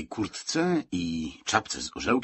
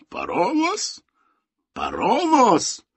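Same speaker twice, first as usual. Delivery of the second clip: high-pitched, baffled echo; baffled repetition; 12 semitones higher, 6 dB louder, much slower than usual. A narrator's reading. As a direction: repeat it louder and slower the second time. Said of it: "powtórzył funkcjonariusz". (zdumione powtórzenie)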